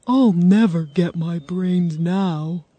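slow, glum character voice; mildly mournful straw man; sad Scarecrow. A narrator's reading. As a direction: drag the words out, downhearted. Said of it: "said the Scarecrow sadly".

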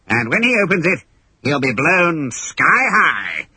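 lightly voiced villain, pleased with himself; gloating pirate captain. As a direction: savour every word. Hook explains plot.

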